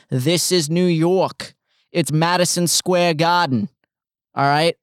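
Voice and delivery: a hint of a Boston accent, slowed down. Shown as a demonstration. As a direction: slip into a Boston accent by accident. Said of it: "that was a Boston accent".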